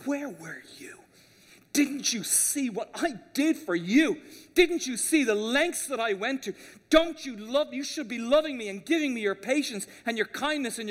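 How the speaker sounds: acted indignation, hushed start then mounting; finger-wagging reproach. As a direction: scold God as one who feels owed, easing off at the end. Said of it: "you wag your finger at God and say".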